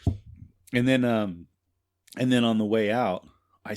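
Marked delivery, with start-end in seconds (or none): 0.0-0.1 awkward cheery greeting, loud and high; fake friendly. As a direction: cover the awkwardness with a bright hello.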